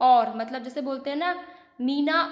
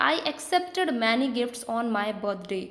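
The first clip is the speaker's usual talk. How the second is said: slow dictation; much slower than usual. Shown as a demonstration. Example sentence read for class.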